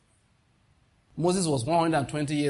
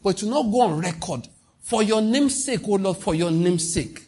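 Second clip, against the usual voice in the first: raised, pleading prayer voice; fervent retold prayer; 3 semitones higher than usual. Preacher retelling his own prayer, raised and pleading. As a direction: beg God with rising fervour. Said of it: "I said".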